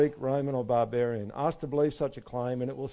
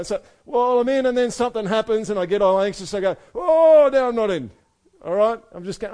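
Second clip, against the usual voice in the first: high, loud, building fervour; impassioned preaching; 8 semitones higher, 8 dB louder than usual. Real, not acted. Preacher to congregation at full force, high and loud. Passionate sermon climax.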